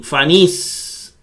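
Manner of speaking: fanis stressed at the end, faNÍS; stress on last syllable. Shown as a demonstration. Teacher showing final-syllable accent, stress faNÍS. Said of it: "El acento va en, en la, en la última sílaba".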